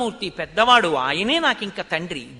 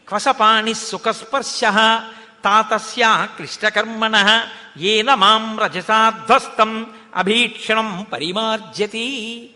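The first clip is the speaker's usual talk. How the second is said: slow, louder chanted Sanskrit verse; shloka recitation; 4 dB louder, slower than usual. Acted. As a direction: intone the shloka like a pravachanam. (శ్లోక పఠనం, నెమ్మదిగా గట్టిగా)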